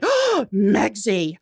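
slow, savoring gasp of delight; delighted realization. Retold or imitated. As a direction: taste the new name slowly.

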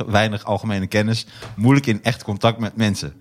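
licht voorleestoon, rustig; mail voorlezen. Acted. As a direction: lees de mail netjes voor. Leest mail van Remy voor. (rustig voorgelezen mail van luisteraar Remy)

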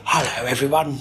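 lightly voiced gentleman impression; a hint of polite, put-on gentility; Bram. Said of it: "he would talk like a gentleman".

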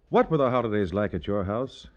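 ordinary talk, nothing marked

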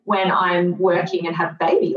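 dry sarcasm with a sharp rising right; sarcastic. Real, not acted. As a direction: sarcasm aimed at her former self. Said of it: "hear the sarcasm in my voice".

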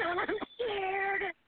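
scared words choked by crying; tearful fear. Real, not acted. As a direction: admit the fear through tears. Caller who cannot swim.

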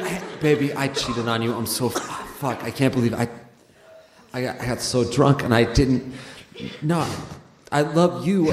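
low, soft guilty confession; pleading boyfriend. Pretend. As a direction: quietly beg her forgiveness. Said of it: "So what you say is".

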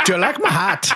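high-pitched mock Canadian accent; playful put-on Canadian regional voice, amused; mimicked Canadian accent. Joking among friends about regional accents, mock Canadian accent.

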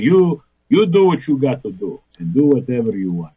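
put-on Greek American accent. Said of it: "my father with that Greek American accent".

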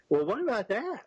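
goofy question. Retold or imitated. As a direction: ask it a touch like a goofball. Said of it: "Like a goofball".

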